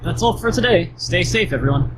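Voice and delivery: high, sing-song teacher; chirpy bird teacher signing off. Acted. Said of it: "teacher bird, right?".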